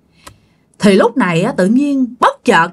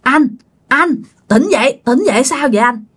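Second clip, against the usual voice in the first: calling out to wake; 2 semitones higher than usual. Retold or imitated. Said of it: "mới kêu".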